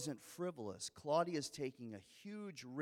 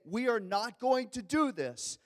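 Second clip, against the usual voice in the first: authoritative order; 7 semitones higher, 7 dB louder than usual. Pretend. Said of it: "throwing around his authority".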